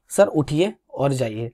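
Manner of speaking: polite, slow and measured; respectful request. Shown as a demonstration. Asking sir to get up and go, respectfully. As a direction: courteously ask a sir to leave. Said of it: "मैंने शायद respect दिखाई".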